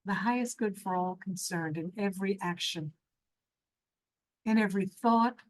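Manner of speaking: measured, reverent teaching in spaced phrases; spiritual meditation teaching. Real, not acted. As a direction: guide listeners thoughtfully, pausing between thoughts. Leads a meditation session.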